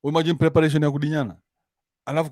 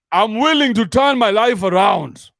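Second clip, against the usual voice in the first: slow, higher, louder hammed-up plea; husband hamming it up, begging his wife to take him back; mock pleading; 6 semitones higher, 4 dB louder than usual. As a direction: beg like you're on your knees.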